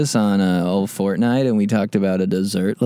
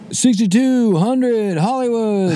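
quarterback calling cadence; 11 semitones higher than usual. Pretend. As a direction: bark it like a quarterback at the line. Address barked as football cadence.

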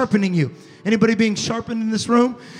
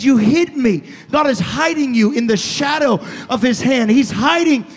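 fervent preaching; 3 semitones higher than usual. Acted. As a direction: keep pushing the promise home. Preaching at full force.

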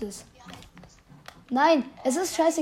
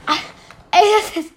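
laughing; 5 semitones higher, 9 dB louder than usual. Real, not acted. Laughing exclamation.

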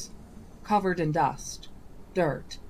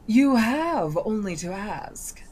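slow coaxing offer; 5 semitones higher, 4 dB louder than usual. Acted. Genie tempts Nathaniel.

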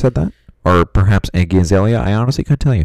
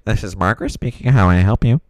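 supervisor voice; 3 semitones higher than usual. Acted. New operator character answers.

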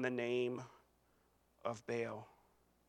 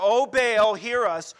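crying out; 3 semitones higher, 8 dB louder, slower than usual. Retold or imitated. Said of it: "all morning they're crying out".

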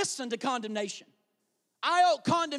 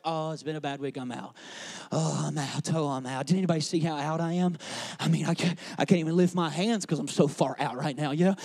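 low, heavy moan of being out; hammed-up misery after a bad week; mock despairing Christian; 6 semitones lower, 5 dB louder than usual. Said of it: "You meet Christians like this".

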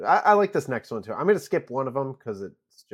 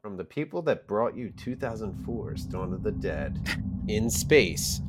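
horror trailer voice; 2 semitones lower than usual. Pretend. Reads mashup tagline.

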